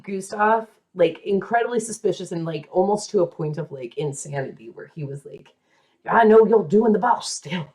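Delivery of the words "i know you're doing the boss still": put-on a light Southern accent on a jealous husband. Jealous husband accusing his wife in a mild Southern accent. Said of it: "I don't know why he's Southern all of a sudden".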